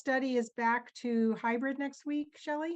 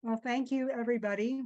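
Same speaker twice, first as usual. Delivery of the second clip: talking with a mouthful; mouth full; 2 semitones higher than usual. Real, not acted. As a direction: speak through a bite of bread. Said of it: "with my mouth full".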